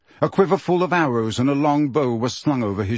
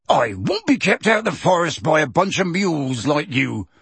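loud; 3 semitones higher than usual. Acted. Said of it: "said Hagrid loudly".

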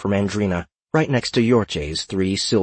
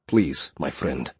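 slow, smiling self-assurance; confident smile; 5 semitones lower, 4 dB quieter, slower than usual. A narrator's reading. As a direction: brush off the worry slowly. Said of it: "with a confident smile".

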